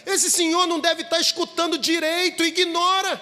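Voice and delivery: exasperated father. A narrator's reading. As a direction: push the boy to forget the one man. Father urges son to ignore critic.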